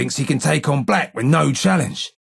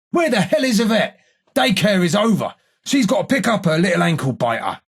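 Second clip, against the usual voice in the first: taunting demand; 5 semitones higher than usual. Acted. Demanding, taunting about daycare being over.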